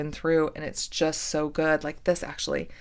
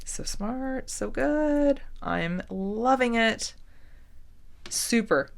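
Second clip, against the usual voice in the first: excited; 6 semitones higher, slower than usual. Real, not acted. Thrilled at new beads.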